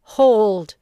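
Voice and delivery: loud, high cry to stop; cry of hold. Acted. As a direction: shout it out as a warning to halt. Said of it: "to cry".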